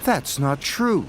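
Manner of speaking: mild cross. Acted. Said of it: "said Thomas crossly".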